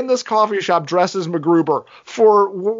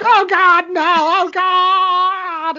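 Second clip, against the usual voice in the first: high, louder hammed-up panic wail; mock panic; 13 semitones higher, 3 dB louder, slower than usual. Imitating Vicky flailing on the floor, hammed-up panic. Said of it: "flailing on the ground going".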